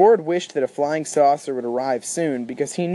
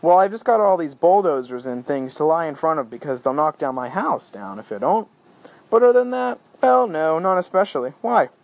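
heavy mock-casual sarcasm, pitch climbing on other than that; sarcastic. Arthur answering Ford, dripping with sarcasm. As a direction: lay the sarcasm on thick. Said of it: "They don't have sarcasm on Beetlejuice".

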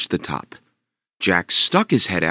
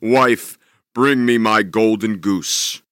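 louder, slow gruff command; barked order; 3 dB louder, slower than usual. Acted. Giant demanding his goose, barking. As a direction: bark at the wife. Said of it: "he barked".

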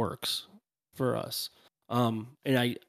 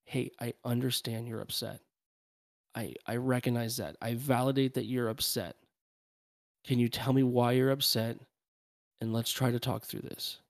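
calm soothing parent. Shown as a demonstration. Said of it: "okay, get down and say".

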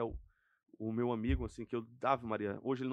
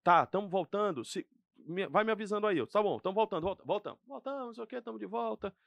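upbeat live TV host voice, pitched higher; broadcast announcer voice; 5 semitones higher than usual. Retold or imitated. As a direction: play it like going back on air live. Retelling his return to the air. (voz de locutor voltando ao ar)

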